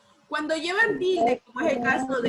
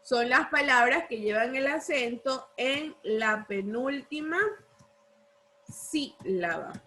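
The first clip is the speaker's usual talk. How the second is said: dictation with a long pause before the last word; dictating. Real, not acted. Teacher dictates the definition for copying, paced dictation.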